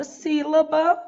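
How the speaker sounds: "sílaba" with the stress on SÍ; stress on first syllable. Shown as a demonstration. Teacher giving a proparoxytone example, "sílaba" stressed on SÍ. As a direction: lean on the SÍ that opens "sílaba". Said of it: "sílaba acentuada".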